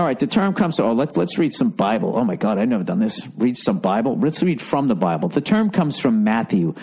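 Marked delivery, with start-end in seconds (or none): none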